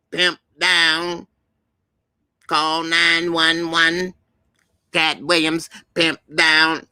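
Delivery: hammed-up cry for help in a comedian's voice; Cat Williams impression. Comedian calling for help after a fall, mock alarm. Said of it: "you like my Cat Williams impersonation".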